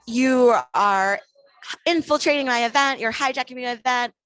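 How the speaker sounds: emphatic mock yell, loud on the opening words; retold yelling. Man accuses her of taking over his event, retold yelling. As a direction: imitate his accusing outburst, forceful first words. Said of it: "as he continued yelling".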